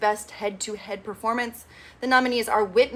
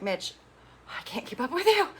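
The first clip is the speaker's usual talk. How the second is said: exasperated; 5 semitones higher than usual. Real, not acted. Exasperated aside to Mitch.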